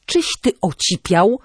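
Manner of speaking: mild, contained yell of disbelief; indignant cry. A narrator's reading. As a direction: cry out without really shouting. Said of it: "krzyknęła na Antka".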